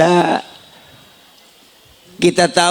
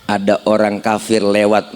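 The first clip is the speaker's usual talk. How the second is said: normal talking voice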